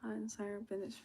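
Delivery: barely audible, voice catching with emotion; fading almost to nothing as the feelings hit; real tearful near-whisper; choked up. Real, not acted. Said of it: "it's been a very emotional time".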